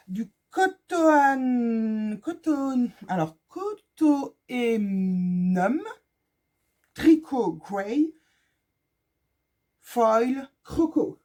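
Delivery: halting, drawn-out attempt at English; bad English accent. Real, not acted. Vlogger reading an English fabric label, poor English accent. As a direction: sound out English words slowly in a poor French-tinged accent. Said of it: "mon accent anglais est très très pourri".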